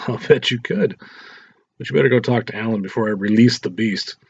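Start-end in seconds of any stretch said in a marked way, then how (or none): 0.1-1.0 slow teasing laugh through the words. Acted. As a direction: laugh it out, slowly and knowingly. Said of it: "Lisa laughed".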